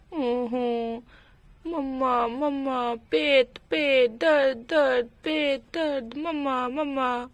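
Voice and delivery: put-on little child whimpering in single words, each one falling; mock toddler whine, word by word; lightly voiced crying toddler. Toddler to mother about a tummy ache, mock whimper. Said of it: "क्यों रो रहे हो बेटा".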